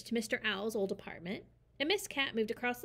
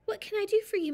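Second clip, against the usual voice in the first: much higher, louder owl; 11 semitones higher, 6 dB louder, faster than usual. Acted. Mister Owl greets the mouse in a high voice. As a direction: pitch it up as the owl.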